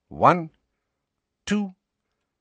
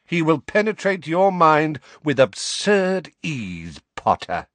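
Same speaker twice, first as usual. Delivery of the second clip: louder, savage tirade; 4 semitones higher, 4 dB louder than usual. Acted. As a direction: tear into him savagely. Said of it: "said Snape savagely".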